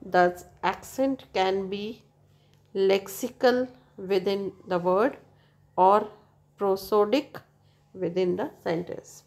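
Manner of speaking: slow, careful reading from the book; textbook reading. Acted. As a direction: read the definition out slowly for students. Reads textbook English slowly.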